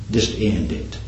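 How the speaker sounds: soft, low mock whisper; Satan's whisper. Satan tempting Peter to end it, quiet mock whisper. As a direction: hush it like a tempter. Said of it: "Satan whispered to him".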